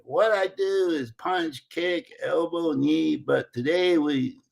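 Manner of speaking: slow, imitated Brazilian accent. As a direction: lay out the rules slowly in a put-on Brazilian accent. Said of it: "says a really thick Brazilian accent".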